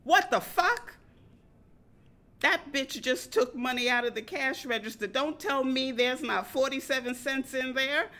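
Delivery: loud, high, outraged yell; inner voice shouting. Retold or imitated. Penny Pincher shouting in the narrator's head, loud and high. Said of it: "Penny Pincher, shouted".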